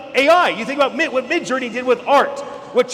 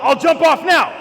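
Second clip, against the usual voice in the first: dad's thought; 7 semitones higher, 5 dB louder than usual. Retold or imitated. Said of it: "he thought".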